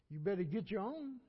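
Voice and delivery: loud, sassy complaining worker; mock defiant servant. Preacher mocks what today's workers would say, loud and defiant. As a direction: throw it back like a fed-up employee. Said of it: "what some of these folks would say today".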